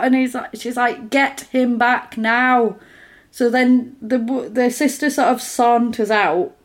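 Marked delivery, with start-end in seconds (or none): 1.1-2.8 slow, higher "Get him back now"; imitated insistent order. Blind sister insisting "Get him back now", slow imitated order.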